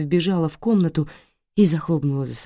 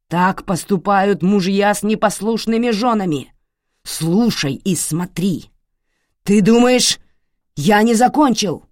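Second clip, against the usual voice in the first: menacing shout; 5 semitones higher, 6 dB louder than usual. Acted. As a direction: spit each threat out. Father beating wife, shouting.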